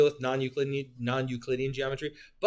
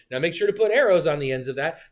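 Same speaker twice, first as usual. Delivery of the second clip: imitating a teacher; 4 semitones higher, 6 dB louder, faster than usual. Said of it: "your teacher probably said".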